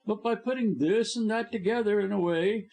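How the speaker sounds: gloating high villain voice; scheming blackmailer. A narrator's reading. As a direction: lay out the terms smugly. Blackmailer boasting.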